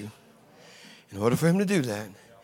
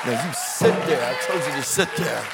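stern mom. Acted. Mother putting Jimmy in the cart, stern order.

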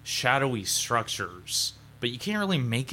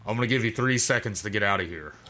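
intercom voice; faster than usual. Acted. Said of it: "a voice come on the intercom".

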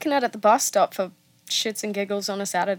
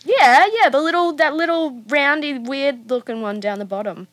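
put-on old man voice; 5 semitones higher, 5 dB louder than usual. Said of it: "he goes".

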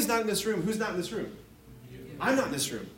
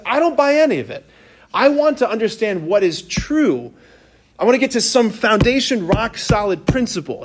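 emphatic Descartes quote; 3 semitones higher, 5 dB louder than usual. Retold or imitated. Descartes fed up with rival philosophies, declaring it louder. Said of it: "And he said".

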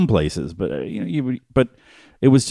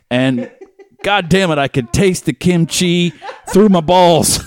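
laughing; 6 semitones higher than usual. Real, not acted. Laughing through the crude line.

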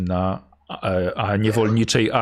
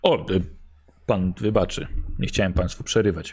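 put-on British accent in Polish; 4 semitones lower than usual. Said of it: "z brytyjskim akcentem".

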